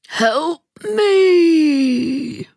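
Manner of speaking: high, plaintive, drawn-out wail; high, helpless plea; weak call for help. A narrator's reading. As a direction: cry out feebly, stretching the last word. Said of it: "and it sounds weak".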